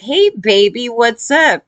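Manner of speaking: imitating a catcalling construction guy; mock catcall. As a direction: lightly put on a construction-site come-on. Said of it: "walking by a construction site and he's like".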